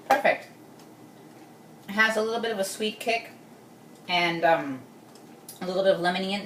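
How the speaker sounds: talking while chewing; mouth full. Real, not acted. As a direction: speak through a mouthful of salad. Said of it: "Sorry, I'm talking with my mouth full".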